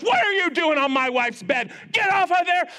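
screaming king. Acted. King catching Haman on the queen's bed, furious shout. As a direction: roar him off the bed. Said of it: "as he starts screaming at Haman".

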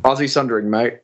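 light Australian accent, Aussie with a Z; mock Australian accent. Shown as a demonstration. Guest imitates host, Aussie Sundering mate, in mock Australian accent. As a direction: copy the Aussie way, ozzie mate. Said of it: "That's pretty good".

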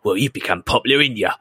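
lightly voiced film-character impression; a hint of a borrowed movie voice; Andy Serkis. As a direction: quote it like the actor, lightly. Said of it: "loved hearing Andy Serkis's voice".

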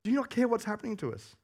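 panicked plea. Retold or imitated. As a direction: plead desperately with Jesus. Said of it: "And they're like".

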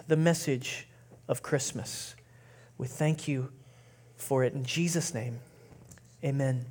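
unhurried prayer with long pauses. Real, not acted. Leads the congregation in prayer.

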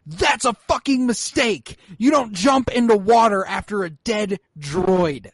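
high, slow, exasperated rant; mock fuming disbelief; retold outrage. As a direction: scold the screen in disbelief. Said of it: "I was like".

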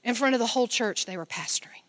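fast, hushed whisper. Real, not acted. Pastor confides the shocking part to church, whispered. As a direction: tell it like a scandalous secret.

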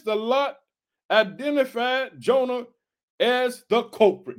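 slow declamation in separated phrases; scripture reading. Acted. Preacher reading of the lots to the congregation, slow declamation. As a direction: read slowly, pausing between phrases.

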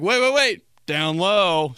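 high, loud hurried stop; mock eager dodge. Comic dodging a high five, high eager redirect. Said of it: "I'm always like".

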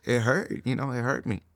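ordinary talk, nothing marked

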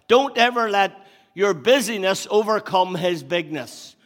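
first take, driving it home; preached line. Shown as a demonstration. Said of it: "I'll say it again".

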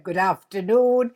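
imitating a posh guest, stretched out slowly; mock posh imitation. Host mimics the guest's posh greeting to tease him. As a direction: send up his posh hello, drawn out slow. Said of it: "I absolutely loved it when he went".

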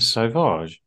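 French accent. Shown as a demonstration. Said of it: "That's French, isn't it?".

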